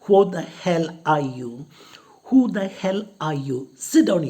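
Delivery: loud, sharp mock order; retold shout. Student shouting at teachers, loud mock order. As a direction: bark it at the teachers. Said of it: "Vasakov shouts at them by saying".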